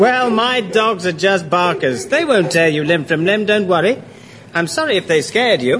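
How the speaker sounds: mild, reassuring courtesy; very polite. Acted. Pursuer apologising for his frightening dogs, polite. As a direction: soothe them politely, at ordinary pitch. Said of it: "You've turned very polite".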